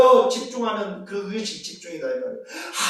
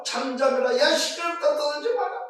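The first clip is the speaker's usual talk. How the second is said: scolding crowd; 5 semitones higher than usual. Acted. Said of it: "꾸짖습니다".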